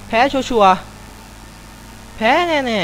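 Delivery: 2 a very slow, stretched mock lament; 3 drag every word out in dismay; 4 slow, whiny resignation; 1 drawn-out whine. Real, not acted. Predicting he will lose.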